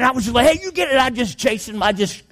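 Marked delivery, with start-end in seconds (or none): 0.5-1.0 high, retold angry shout; mad yell. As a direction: act out yelling at a pest to chase it off. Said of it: "And I got mad".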